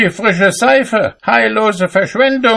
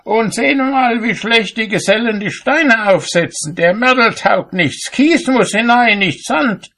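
high-pitched indignant carping; calling out; 3 dB louder than usual. A narrator's reading. Cobbler finds fault with builders from his window, high indignant call. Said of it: "rief er".

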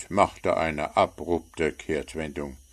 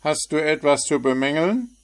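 higher, irritated gnome; snapping; 9 semitones higher, 4 dB louder, faster than usual. A narrator's reading. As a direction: bite his head off. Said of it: "fuhr ihn der Wichtel an".

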